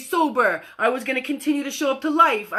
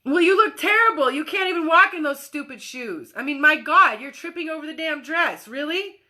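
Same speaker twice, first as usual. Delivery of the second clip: harsh grown-up; 3 semitones higher than usual. Acted. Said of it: "the grown-up that walks out and says".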